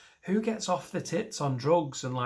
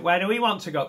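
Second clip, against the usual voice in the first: put-on higher, louder northern accent; 6 semitones higher, 5 dB louder, faster than usual. Family deciding on a move, northern accent. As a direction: play up the northern vowels, pitched up. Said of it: "So northern".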